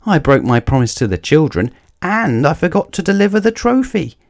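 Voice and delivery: dismay rising with each mistake; a little engine close to tears; growing distress. Acted. Thomas realises his failures.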